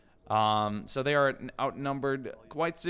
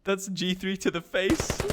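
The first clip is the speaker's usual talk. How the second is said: excited; 7 semitones higher, 4 dB louder than usual. Real, not acted. Reacting to a kill.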